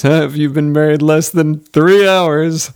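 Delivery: loud, slow, high announcer call; milk it like a cheesy wedding DJ. Retold or imitated. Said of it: "the wedding D J ... says".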